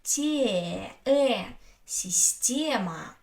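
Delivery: "те, э" held, then "система" with long open e; stressed е as э. Shown as a demonstration. Teacher isolating stressed е, "те, э, система" with held open e. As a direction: stretch the middle vowel of "система". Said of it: "so I say".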